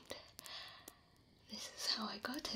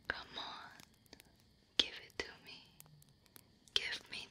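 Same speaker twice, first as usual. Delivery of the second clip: right in your ear; 3 dB quieter than usual. Acted. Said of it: "What about if I whisper right in your ear?".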